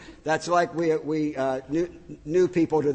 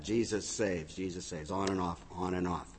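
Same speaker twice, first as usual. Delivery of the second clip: mock blinking sign; 8 semitones lower, 12 dB quieter than usual. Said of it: "flashing bow ties".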